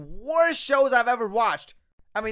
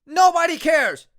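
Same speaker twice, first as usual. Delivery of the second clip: louder, higher, fed up; fed-up shout; 3 semitones higher, 4 dB louder than usual. Real, not acted. Fan yelling at the commentator, fed-up shout. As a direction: snap back at the TV.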